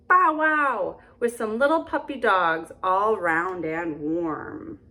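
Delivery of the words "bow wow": dog bark. Acted. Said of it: "There was a big red dog".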